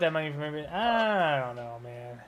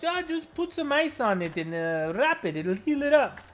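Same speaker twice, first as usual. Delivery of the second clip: high, breezy mimicry of a coach shrugging it off; imitating the Brazilian professor; 9 semitones higher than usual. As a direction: play the laid-back instructor, pitched well up. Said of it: "And he goes".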